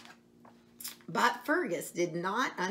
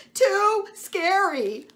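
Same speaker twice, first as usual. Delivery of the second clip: much higher, louder, very slow wail; bawling calf; 13 semitones higher, 9 dB louder, much slower than usual. Acted. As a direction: bawl it out like a frightened calf. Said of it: "bawled Fergus".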